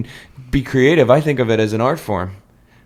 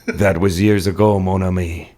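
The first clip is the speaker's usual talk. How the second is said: put-on French accent; 4 semitones lower than usual. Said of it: "my incredibly accurate French accent".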